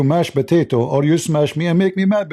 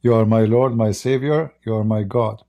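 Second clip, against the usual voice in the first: prayer spoken for her to repeat; 4 semitones lower than usual. Shown as a demonstration.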